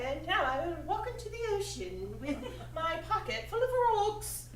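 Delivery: put-on posh English accent, half-laughing; a laughing try at a Downton Abbey English accent. Actress redoes the line in a Downton Abbey accent. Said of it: "more like a Downton Abbey kind of accent".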